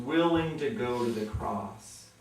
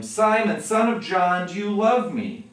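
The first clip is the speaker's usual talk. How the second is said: pleading question; 7 semitones higher, 7 dB louder than usual. Retold or imitated. Jesus asking a third time.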